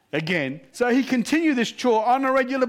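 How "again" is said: laughing in disbelief, pitched up; the commander can't believe his ears and chuckles; incredulous laughing echo. Retold or imitated. Commander laughing in disbelief at the prisoner's request.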